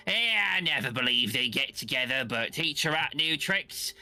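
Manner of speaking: a cheeky rodent wisecracking; streetwise talking rat. Acted. Black rat to Marcy, cheeky and high.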